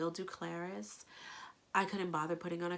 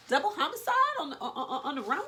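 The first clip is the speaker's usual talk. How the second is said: laughing; 12 semitones higher, 5 dB louder, faster than usual. Real, not acted. Laughing at snake murder idea.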